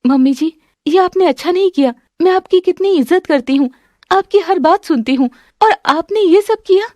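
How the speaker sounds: acted tearful reproach; hurt, tearful. A narrator's reading. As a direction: plead with mother-in-law, deeply hurt. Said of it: "बहुत दुखी हो जाती है और रोने लग जाती है".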